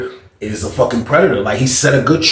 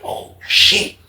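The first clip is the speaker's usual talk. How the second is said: whisper. Retold or imitated. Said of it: "I was like".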